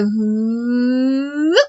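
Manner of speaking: teacher's warm-up hum; warm-up ooh. Shown as a demonstration. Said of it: "we warm it up here and we go".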